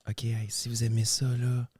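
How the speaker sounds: library whisper. Acted. ASMR whisper continues.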